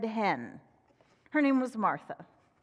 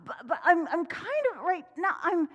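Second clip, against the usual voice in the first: higher, louder fox stalling; 6 semitones higher, 4 dB louder than usual. Acted. Fox dodging work, high stammering voice. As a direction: gush then stammer excuses. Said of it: "And Fox said".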